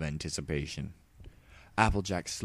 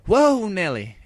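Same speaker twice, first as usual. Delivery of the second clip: high, loud startled cry; startled yelp; 13 semitones higher, 10 dB louder, slower than usual. Acted. Applejack startled by Luna's crash, high loud yelp. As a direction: jump back in shock.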